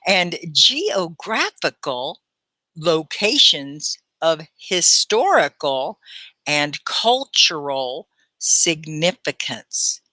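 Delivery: slow, articulated teacher reading; very clear read-aloud. Shown as a demonstration. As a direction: pause at the punctuation and shape every word. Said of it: "be sure and articulate".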